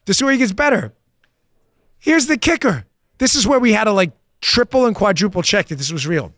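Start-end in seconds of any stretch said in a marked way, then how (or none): none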